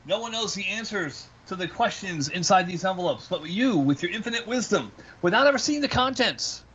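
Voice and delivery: theatrical showman delivery; haunted house actor. Acted. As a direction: spin a mysterious buildup. Presenting sealed envelopes theatrically.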